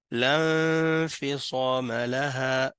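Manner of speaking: "لا انفصام لها" recited as lanfisama laha, N hummed long; fuse "لا" straight into "انفصام"; silent hamzat al-wasl. Shown as a demonstration. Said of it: "ici, on le prononce pas".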